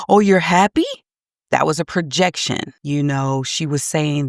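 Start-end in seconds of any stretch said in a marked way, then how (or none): 0.1-0.9 louder, higher questioning lilt; imitated mom. Quoting the mom questioning her crying daughter, mock upbeat. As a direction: mimic a mom prompting her child, pitch up. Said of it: "the mom continued to say".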